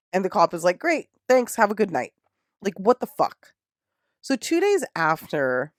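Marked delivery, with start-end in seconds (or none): 0.8-2.1 higher, chirpy sign-off; mock breezy cop. Cop waving off Josh's defiance, mock breezy. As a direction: sound cheerfully useless.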